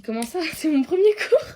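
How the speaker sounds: laughing high surprise; squealing laugh of disbelief. Retold or imitated. Retold shocked reply.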